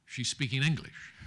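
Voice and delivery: laughing quote. Retold or imitated. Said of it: "He said".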